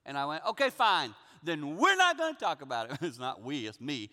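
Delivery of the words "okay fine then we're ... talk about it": retold huffy concession, louder; irritated. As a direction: give in with mild acted irritation. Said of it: "So I got irritated".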